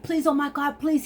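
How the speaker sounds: lightly acted pleading; mock begging. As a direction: imitate someone begging. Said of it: "He was begging me".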